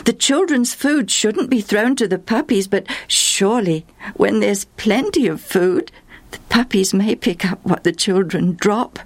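eager answer. Acted. Mother answering Jesus, mildly eager. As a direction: answer quickly, keen. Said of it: "she answered eagerly".

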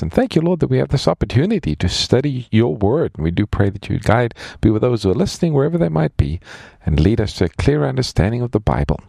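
earnest spoken prayer, unhurried. Real, not acted. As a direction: pray sincerely for the listeners. Host leads opening prayer.

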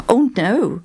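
keen, earnest protest; eager answer. Acted. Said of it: "she answered eagerly".

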